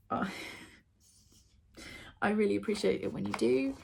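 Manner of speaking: soft whisper. Real, not acted. Thanking viewers while opening parcel.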